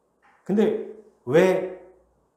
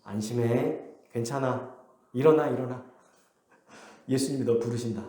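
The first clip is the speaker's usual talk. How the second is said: lower, gentle mock reassurance; mild, calmed-down encouragement; suddenly kind, retold; 4 semitones lower, 3 dB quieter than usual. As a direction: soothe him, imitating a crowd turned friendly. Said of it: "태도가 완전 돌변해요".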